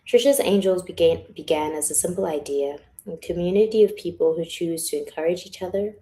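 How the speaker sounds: projected, heartfelt reading that settles after the opening; reading a letter aloud. Acted. Author reading letter to her angels, projected and sincere. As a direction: announce the title loudly, then read it out.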